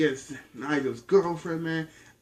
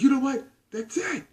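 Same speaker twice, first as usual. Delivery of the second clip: fed up; 12 semitones higher than usual. Retold or imitated. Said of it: "You know, in my mind, though".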